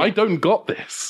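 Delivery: high, slow, helpless voice; defeated admission. Acted. Larry tells the Doctor the pep talk failed, defeated. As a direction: give up with a small whine.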